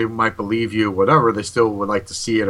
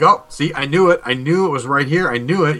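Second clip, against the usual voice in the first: higher, triumphant retold reaction; excited vindication; 5 semitones higher than usual. Retelling the moment the voice confirmed it, excited. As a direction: act out being proved right, pitched up.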